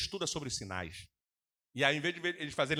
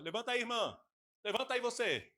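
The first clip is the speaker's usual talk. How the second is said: mock pastor command; 8 semitones higher than usual. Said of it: "é aquele ali que ele levanta".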